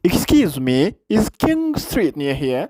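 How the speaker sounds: slow careful repeat. Shown as a demonstration. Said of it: "repeats final clip".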